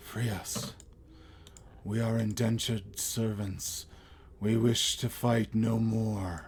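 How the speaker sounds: hushed, rasping, raspy voice. Storyteller voicing figures calling out to the group, raspy voice. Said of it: "in a raspy voice".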